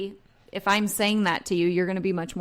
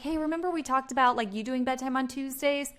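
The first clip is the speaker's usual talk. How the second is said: light, softer, easy reminder; a soft friendly nudge; 4 semitones higher, 4 dB quieter than usual. Shown as a demonstration. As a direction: gently remind them, no pressure. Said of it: "versus this".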